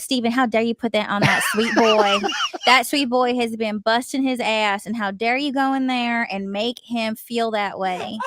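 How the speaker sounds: hammed-up motherly telling-off; scolding mother. Co-host imitates host's mom defending Stone, mock-indignant scolding. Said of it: "She's like, she goes".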